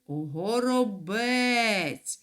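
«Горобець» drawn out very slowly, stressing «бець»; stress on the last syllable. Shown as a demonstration. Teacher models the word for pupils, very slow and stressed. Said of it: "Наголос падає на третій склад".

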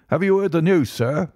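high-pitched, agitated servant bringing news; gasping butler. A narrator's reading. Shaken butler rushes in to his master, gasping. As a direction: burst out with it, pitch jumping up. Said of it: "he gasped".

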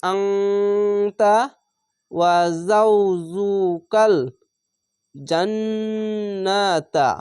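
slow recitation, the nasal ng of আংতা held long; nasalised recitation. Shown as a demonstration. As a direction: hum the ng in আংতা through the nose, slowly. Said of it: "লাখে চেপে অনেস্কারের মতো হবে".

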